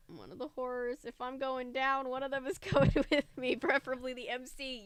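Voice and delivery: chuckling through the words; amused, laughing aside. Real, not acted.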